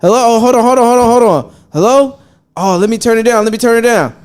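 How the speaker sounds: fake phone answer. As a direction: pretend the call is real. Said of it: "I was like".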